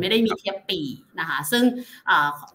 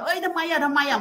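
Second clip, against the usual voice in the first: higher-pitched imitation of a nervous investor asking why; mock worried fret; 9 semitones higher than usual. Executive imitates jittery investors asking what went wrong, mock worried. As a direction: play the anxious shareholder fretting, half-joking. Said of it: "พอมาปุ๊บเนี่ยมัน".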